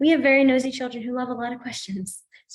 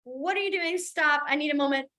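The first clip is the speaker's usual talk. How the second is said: higher, mock-panicked student plea; overwhelmed class; 4 semitones higher than usual. Teacher imitating a class that needs a moment, higher mock panic. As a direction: play a swamped student begging for a pause. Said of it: "some classes will be like".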